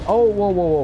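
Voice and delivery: quick rising alarmed whoas; startled whoa. Real, not acted. Gamer yelps as he nearly falls. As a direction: caught off guard mid-jump. Startled while playing a game.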